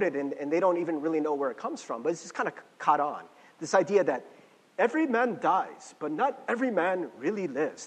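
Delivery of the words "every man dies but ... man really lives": put-on half-hearted, clumsy Scottish accent; bad Scottish accent. Preacher quoting Braveheart to listeners, in a bad Scottish accent. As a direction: quote it in a poorly faked Scottish accent. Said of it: "That's my Scottish accent. It's terrible".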